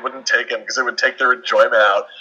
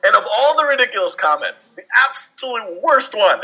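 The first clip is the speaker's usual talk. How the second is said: higher pitched, building outrage on the worst one; rising anger; 6 semitones higher than usual. Real, not acted. Podcaster ranting to co-hosts about fans, voice rising in anger. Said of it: "my voice is raising here because this infuriates me".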